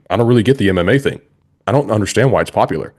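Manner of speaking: quick, lightly imitated politician-style wrestler; hint of a politician explaining himself, fast; John Cena impression. Podcaster quoting Cena on MMA, light quick impression. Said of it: "You're nailing back the, uh, impression".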